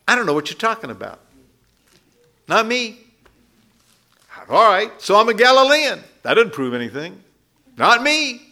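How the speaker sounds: lightly hammed-up defensive denial; Peter's panicked denial.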